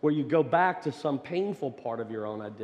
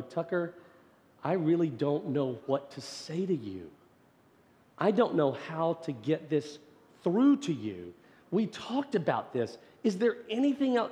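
mock exasperation; 4 semitones higher than usual. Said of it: "as if I'm exasperated".

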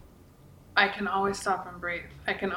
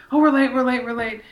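imitating herself, louder and higher on "we're late"; flustered panic; 3 semitones higher, 7 dB louder than usual. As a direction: rush the repeated "we're late" like a frazzled mom. Mom panicking about being late.

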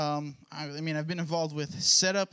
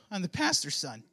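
lightly voiced teen. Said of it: "age accuracy voice".

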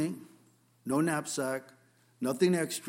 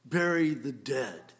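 a touch of cold bluntness, slowed; heartless; slower than usual. Retold or imitated. Preacher imitates Jesus sounding heartless, mild cold bluntness. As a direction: say it flatly, unmoved, a bit slow. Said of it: "you just so heartlessly say".

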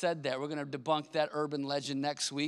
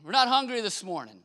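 put-on kids yelling back; 4 semitones higher, 3 dB louder than usual. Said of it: "they yelled back at me".

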